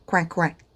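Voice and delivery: soft playful quacking; duck quack. Shown as a demonstration. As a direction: say it like a little duck. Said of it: "Just like a duck".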